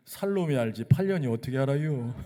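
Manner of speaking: lightly voiced Chungcheong melon seller, dry and offhand; a hint of a Chungcheong countrywoman's sly retort; Chungcheong dialect. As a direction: pastor retelling Lee Young-ja's Chungcheong joke, mild accent. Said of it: "충청도 화법".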